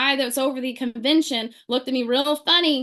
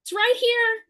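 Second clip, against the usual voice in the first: eager slow offer; 11 semitones higher, slower than usual. Retold or imitated. Retold own eager reply.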